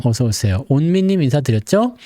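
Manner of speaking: ordinary talk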